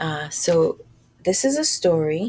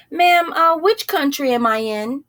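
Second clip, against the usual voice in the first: high mouse voice; 7 semitones higher, 4 dB louder than usual. Acted. Mouse asks the cow.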